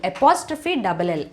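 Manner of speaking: slow, careful spelling for the class. Shown as a demonstration. Teacher spelling a contraction slowly for students. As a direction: spell out "I apostrophe double L" slowly, letter by letter. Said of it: "సెంటెన్స్లో I will వచ్చేటప్పుడు I'll అని వస్తుంది".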